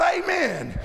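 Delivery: mildly shouted praise; imitated congregational shout. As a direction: call out amen like someone in the pews. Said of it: "would shout".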